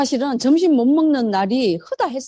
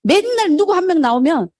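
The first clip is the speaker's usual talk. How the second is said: usual speaking voice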